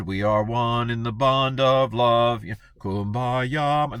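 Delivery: slow, dreamy, singsong piety; gently mocking kumbaya tone; sappy unity. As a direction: croon it like a campfire hymn. Mocking early church harmony.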